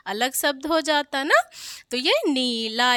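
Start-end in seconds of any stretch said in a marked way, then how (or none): 2.3-2.9 नीला with drawn "neee"; long-ee "neee-laa" for नीला. Shown as a demonstration. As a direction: stretch the first vowel of नीला. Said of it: "इसमें बड़ी की मात्रा रहेगी".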